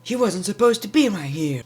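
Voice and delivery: high, slow whiny brat voice, drawing out not fair; spoiled kid whine. Retold or imitated. Mocking Baron Corbin complaining about the match, whiny spoiled kid. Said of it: "he reminded me of a kid, spoiled kid".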